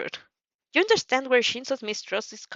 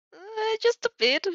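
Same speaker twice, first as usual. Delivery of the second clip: playful huff. Acted. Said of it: "You huff".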